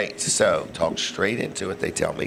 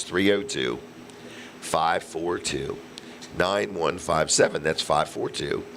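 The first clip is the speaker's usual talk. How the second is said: slow dictation; 2 semitones lower, slower than usual. Acted. Reading out phone number slowly.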